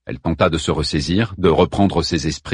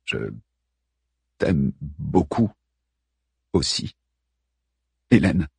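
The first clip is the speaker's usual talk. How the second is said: lower, slow tender Hockenberry; slow tender man; 5 semitones lower, slower than usual. Acted. Hockenberry answers her love.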